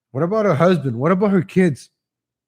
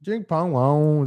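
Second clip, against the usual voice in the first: slow, drawn-out mock gibberish; John Cena mock voice; much slower than usual. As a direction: stretch each nonsense word lazily. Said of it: "That's how John Cena talks".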